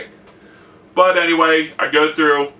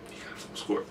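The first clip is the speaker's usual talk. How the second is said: unvoiced hushed whisper, barely audible; 3 semitones lower, 17 dB quieter, faster than usual. Professor whispering the grade to her student. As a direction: breathe it like a secret. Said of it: "And then she whispers".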